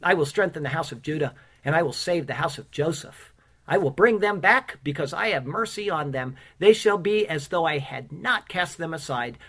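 measured, solemn reading of scripture. Acted. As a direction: read it out like a preacher at the pulpit. Scripture read aloud to congregation.

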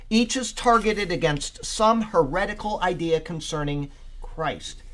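preacher reading out a study note; emphatic read-aloud. Real, not acted. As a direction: read the commentary out with deliberate emphasis. Reads commentary aloud to group.

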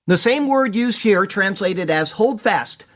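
usual speaking voice

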